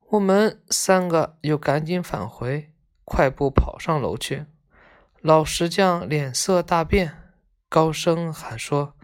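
measured, expressive storybook reading; story narration. A narrator's reading. Reading a tale of schoolboys visiting a sick friend, expressive narration. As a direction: read the tale aloud with feeling.

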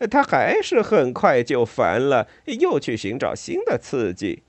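animated, emphatic rat voice; chatty, high-energy rat character; gossiping water rat. Acted. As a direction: recount a friend's fads with lively exasperation.

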